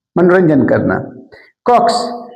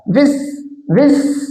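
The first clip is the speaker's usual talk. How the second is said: विस pitched up as the stressed syllable; stressed first syllable; 5 semitones higher, much slower than usual. Shown as a demonstration. Teacher isolating the first sound for students, stressed विस. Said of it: "आईटी हल्का बोलना है".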